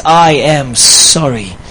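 slow, deliberate heartfelt sorry with weight on I; slow sincere apology. Shown as a demonstration. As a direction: say it slowly, meaning every word. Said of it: "Those are powerful words".

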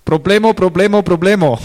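mock the captain on the radio; boat captain's radio call. Preacher imitating the boat captain on the radio, mock alarm. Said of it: "he started all his conversations like this".

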